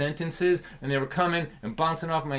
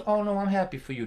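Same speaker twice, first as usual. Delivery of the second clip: mild sarcasm; 5 semitones higher than usual. Retold or imitated. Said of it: "dripping with sarcasm".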